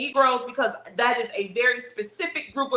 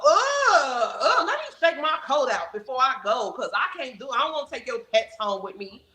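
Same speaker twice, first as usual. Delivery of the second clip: squirm and shudder at the mess; disgusted. Retold or imitated. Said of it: "You could go".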